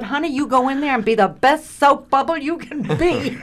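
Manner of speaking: high-pitched, amused mock encouragement; lifted voice, breaking into laughter; imitated pep talk. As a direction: play the seasoned colleague urging her on. Acts out colleague's pep talk, laughing.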